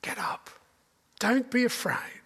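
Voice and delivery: soft hushed whisper of comfort; gentle whisper. Acted. Jesus whispers comfort to his frightened disciples, hushed and gentle. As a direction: breathe it softly to frightened friends. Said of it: "He says simply".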